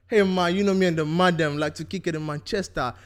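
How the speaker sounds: hammed-up English street-slang accent. Host showing friends his best English accent, hammed-up. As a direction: play a swaggering English lad. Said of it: "We do our best English accent".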